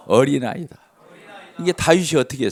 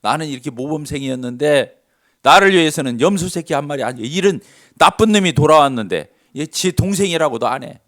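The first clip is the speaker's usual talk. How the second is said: indignant, swelling louder mid-complaint; huffing older son; 5 dB louder than usual. Retold or imitated. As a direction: protest to his father with resentment. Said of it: "막 씩씩대는 거예요". (씩씩대며 따지는 큰아들)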